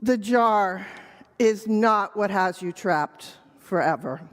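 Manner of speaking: measured, understated tiredness with pauses; lightly voiced weary owl. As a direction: deliver the moral with mild weariness. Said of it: "owl who has grown weary of this".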